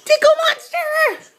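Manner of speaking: high, slow playful monster; tickle monster voice. Pretend. Mother playing with her baby.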